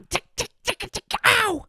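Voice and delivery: very high, tiny squeak; high squeaky voice. Pretend. High chanted ticking.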